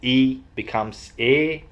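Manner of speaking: second "E" stretched toward "eh"; stretched Northern vowel. Shown as a demonstration. Vlogger teaching Northern vowels, second "E" becoming long "eh". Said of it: "stretching those vowels".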